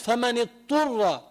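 فمن اضطر with the ض lost, said like فمن اطر; wrong, dad swallowed. Shown as a demonstration. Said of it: "وين راحت الضاد؟". (ضاد ضائعة في اضطر)

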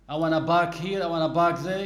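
"park" stubbornly pronounced "bark". Acted. Newcomer refusing to be corrected, p said as b. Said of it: "Don't say bark".

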